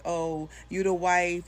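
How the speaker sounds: slow, drawn-out mocking voice of the girlfriend; mocking imitation. Wife mimics the girlfriend's line in a slow, mocking voice. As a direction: stretch it out to mock her. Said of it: "This is really all the stuff that she's saying to me".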